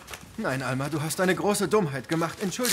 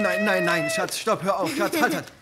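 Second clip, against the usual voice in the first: urgent stop; 5 semitones higher, 5 dB louder than usual. Real, not acted. Child splashing paint on carpet. (Mutter ruft laut und dringend Stopp)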